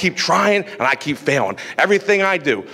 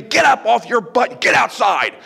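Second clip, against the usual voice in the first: mock parental yell, pitched up; parents yelling; 2 semitones higher than usual. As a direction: play the scolding parent shouting at a lazy kid. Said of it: "they would come in screaming at me".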